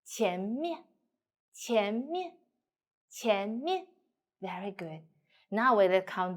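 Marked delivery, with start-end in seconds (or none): 0.0-3.9 前 rises, 面 light, short and a bit lower; neutral after rising. Shown as a demonstration. Teacher drilling second tone plus neutral, 前面 rising then light lower 面. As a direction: lift 前 upward, drop lightly onto 面. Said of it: "should be a little bit lower than the end".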